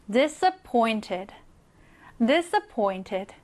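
disappointed slow, stress on pointed. Shown as a demonstration. Teacher drilling disappointed with stress on pointed. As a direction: lean on pointed each time. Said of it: "이 부분에 강세가 들어갑니다".

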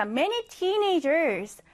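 very slow, careful repeat. Shown as a demonstration. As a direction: stretch the words for learners. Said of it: "자".

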